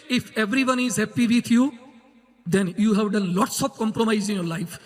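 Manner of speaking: very slow, deliberate English quote; slow quoted maxim. Acted. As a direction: lay the quote out slowly. Quoting a thinker, slowly. (અંગ્રેજી સુવાક્ય ખૂબ ધીમેથી)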